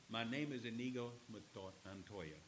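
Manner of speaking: lightly attempted Spanish accent, softly delivered; mock Spanish accent. Preacher proving he can quote the movie, mock Spanish accent. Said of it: "You gotta say it with his Spanish accent".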